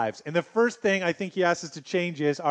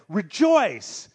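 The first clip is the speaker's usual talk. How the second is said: Rejoice called out again, loud and falling; repeated rejoice; 4 semitones higher, 4 dB louder than usual. Shown as a demonstration. Pastor repeating the key word for his church, loud and emphatic. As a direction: hammer the word Rejoice home once more. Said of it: "I want you to hear it again".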